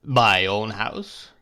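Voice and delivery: slow, pointed echo of her words; cold repetition. Acted. Husband coldly repeating his wife's words. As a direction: repeat it slowly as a warning. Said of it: "repeated Mister Murdstone".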